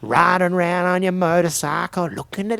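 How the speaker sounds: loud mock rebuke climbing high in pitch; theatrical scolding. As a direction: ham up the reproach, rising as it goes. Acted prank voicemail scolding on stage.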